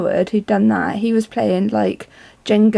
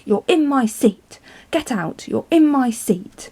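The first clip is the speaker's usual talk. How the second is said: indignant, higher, drawn out on the repeated complaint; rude demand; 4 semitones higher than usual. Retold or imitated. Horrible lady to the old lady in her seat, rude demand. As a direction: imitate a rude passenger claiming her seat. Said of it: "instead of saying, "Oh, excuse me, please".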